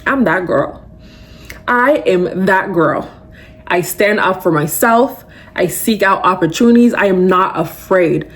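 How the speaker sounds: mirror affirmation. Shown as a demonstration. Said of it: "look yourself in the mirror and be like".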